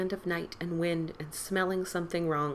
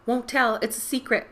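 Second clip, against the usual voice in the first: disguised voice; 6 semitones higher, 7 dB louder than usual. Acted. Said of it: "disguising his voice".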